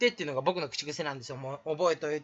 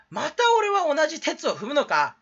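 high theatrical self-reproach; mock lament; 8 semitones higher, 3 dB louder than usual. Streamer rues repeating an old mistake, mock lament. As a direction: wail it in mild comic despair.

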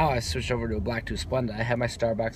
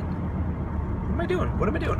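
high confused voice; 13 semitones higher, slower than usual. Real, not acted. Confused self-question, high.

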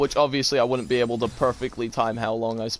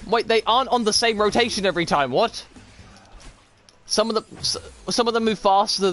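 surprised; 7 semitones higher, faster than usual. Real, not acted. Confused by changing obstacle timing.

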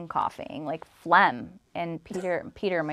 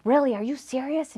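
high-pitched mock disbelief; retold indignation; 8 semitones higher than usual. Landlord reacts to being asked to leave, indignant. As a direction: imitate an offended landlord, pitch jumping up. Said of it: "she's all angry".

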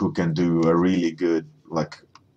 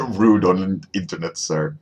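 mock African accent breaking into laughter; amused imitation of an African accent; 4 dB louder than usual. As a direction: laugh through a light African accent impression. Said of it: "that classic African accent".

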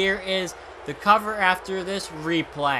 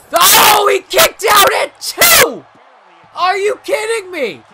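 high disbelieving yell; shocked shout; 14 semitones higher, 12 dB louder, slower than usual. Real, not acted. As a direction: scream in disbelief at kick-out. Near-fall kick-out in match.

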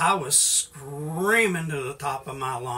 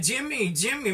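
mother hollering; 7 semitones higher than usual. Retold or imitated. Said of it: "my mother was hollering".

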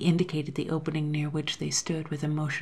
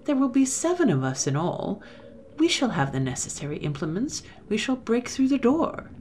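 scheming man; 6 semitones higher, 3 dB louder than usual. Acted. First man outlines plan.

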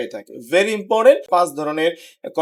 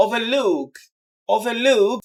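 "overlook" with the weight on LOOK; stress on second part; 3 semitones higher, much slower than usual. Shown as a demonstration. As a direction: lean on the final LOOK in "overlook". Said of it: "second পার্টে হবে". ("overlook"-এর শেষ অংশে জোর)

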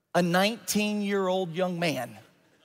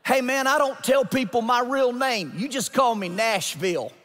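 put-on young jumper's voice; 3 semitones higher than usual. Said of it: "This is what he said".

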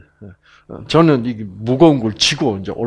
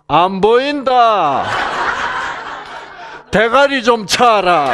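high, slow mock-gruff Gyeongsang husband; husband brushing off his wife, mock gruff and laughing; gruff husband retort; 9 semitones higher, slower than usual. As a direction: toss it back at her laughing. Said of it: "남자".

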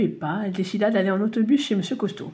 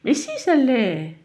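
stubborn insistence; 3 semitones higher, slower than usual. Acted. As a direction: plant your feet on each word. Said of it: "s'obstina Madame Têtue".

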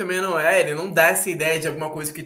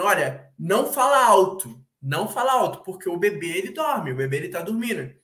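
mock warning. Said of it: "Se eu tô aqui falando".

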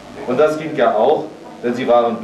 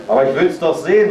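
eager call; 4 semitones higher, faster than usual. Acted. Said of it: "rief Elsbethchen".

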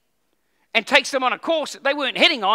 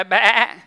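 sheep bleat; 2 semitones lower, 5 dB louder than usual. Shown as a demonstration. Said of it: "Everyone go".

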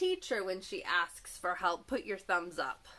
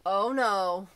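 much louder shocked exclamation; alarmed cry; 10 dB louder than usual. A narrator's reading. Mom sees the moose with the vacuum and cries out loudly. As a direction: gasp it out in alarm.

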